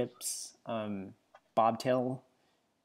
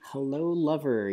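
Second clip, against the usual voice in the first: breathy vintage purr; 4 semitones higher than usual. Pretend. Reading cat profile seductively.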